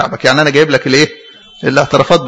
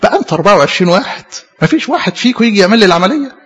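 mildly reproachful, pleading complaint; acted-out grievance, pitch climbing as it goes; retold reproach; 4 semitones higher than usual. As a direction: gently scold them as the old monk would. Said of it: "وبيعاتب الأربعة وعشرين قسيس".

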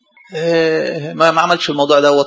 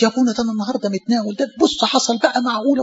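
despairing confession; 6 semitones higher, 3 dB quieter than usual. Retold or imitated. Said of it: "تلاقيه حزين حزن مفرط".

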